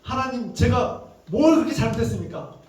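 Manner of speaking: acted aggrieved protest, high then easing down; angry reproach. Job demanding answers from God for his losses, mildly angry retold reproach. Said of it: "욥이 하나님께 막 화를 내는 겁니다".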